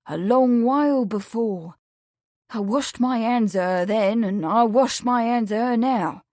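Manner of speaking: firm, emphatic disavowal. A narrator's reading. Lawrence disowns old friend to Amelia, emphatic. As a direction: lean hard on each point, mildly vehement. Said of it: "he said emphatically".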